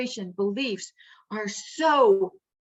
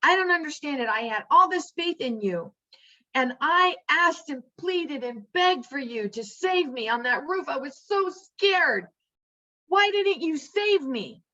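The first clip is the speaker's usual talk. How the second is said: mild mock anger; 3 semitones higher than usual. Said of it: "he's mad at God".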